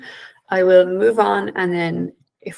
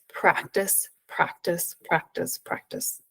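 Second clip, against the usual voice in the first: each practice softer until the last is a breathy near whisper; fading repetition; 8 dB quieter, slower than usual. Shown as a demonstration. Coaching the audience to practise, fading out. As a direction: let the repeated word fade away.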